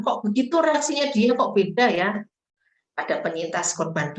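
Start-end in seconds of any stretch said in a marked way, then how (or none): 0.0-2.2 higher-pitched puzzled remark; puzzled questioning. Acted. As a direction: question it as someone taken aback.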